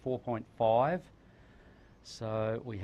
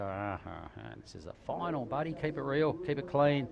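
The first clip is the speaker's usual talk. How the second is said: mock judges; 3 semitones higher than usual. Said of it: "the judges will go".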